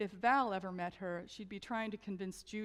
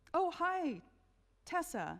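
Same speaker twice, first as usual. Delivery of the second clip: squeaky, high little voice; 9 semitones higher than usual. Narrator reads Judy greeting Tessa at the bead makers' check-in: Judy's squeaky voice. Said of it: "Judy said with a squeaky voice".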